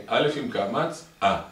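slow, loud sing-song chant; drawn-out alphabet recitation; teacher drilling child. Acted. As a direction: drum the letter lesson in. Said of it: "בשכל אתה מכה לו".

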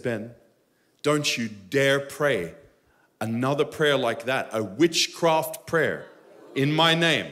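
slow solemn voice of the Father; stern God. Retold or imitated. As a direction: speak as God, gravely warning. God rebukes him in prayer.

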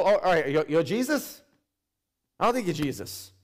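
a mildly doubtful, knowing voice; sceptical retort. Retold or imitated. Bible reader doubting a man claiming to be Jesus, dry sceptical. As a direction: raise a brow at a fake messiah. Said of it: "People that can read the Bible can know".

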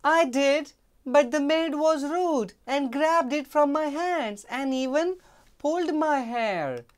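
high, loud aggrieved maid. Acted. Maid telling the queen she was wronged, high and loud. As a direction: tell it as an injustice.

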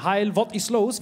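giggling through the comic line; laughing mock Nazi. Comedian repeating the comic-book line to the crowd, laughing. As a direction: laugh while quoting the silly comic.

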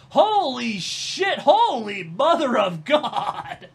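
slow, loud, amazed outburst; stunned disbelief. Real, not acted. She sees the new channel's numbers, slow astonished exclamation. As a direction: drag out the shock, half laughing. Stunned by her subscriber count.

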